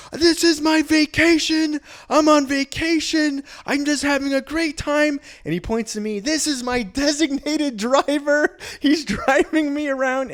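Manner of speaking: put-on high, loud, slow drunk bluster; drunk party guy. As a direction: play the carefree drunk tourist. Drunk friend bluffing to police.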